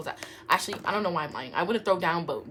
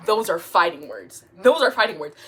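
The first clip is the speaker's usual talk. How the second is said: indignant; 10 dB louder than usual. Real, not acted. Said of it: "reacting to insult".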